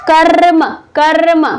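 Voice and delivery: कर्म with a long rolled र; demonstrated pronunciation. Shown as a demonstration. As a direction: trill the r in कर्म before closing on म. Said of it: "इसको क्या पढ़े". (कर्म में र को लंबा खींचकर बोलें)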